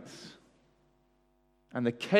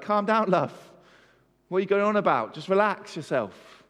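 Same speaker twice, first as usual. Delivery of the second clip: a touch exasperated, slightly raised pitch; mock impatience; 3 semitones higher than usual. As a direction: imitate someone with no time for fuss. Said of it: "I hate fuss".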